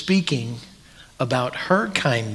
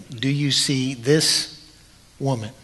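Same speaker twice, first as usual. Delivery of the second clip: gentle, slow question. Retold or imitated. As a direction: ask it gently, drawing out "Do you see this". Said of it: "He's looking at the woman saying".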